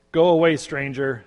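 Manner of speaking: loud warning cry through a window; screamed. A narrator's reading. Hut builder yelling at a stranger at his window. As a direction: yell him off the doorstep. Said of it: "screamed the brother through the windows".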